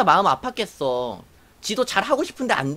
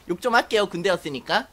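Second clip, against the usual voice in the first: ordinary talk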